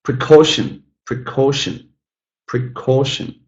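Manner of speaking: "precaution" with CAU stressed; teacher modelling "precaution", second syllable strongest; stress on middle syllable. Shown as a demonstration. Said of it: "The middle one is stressed".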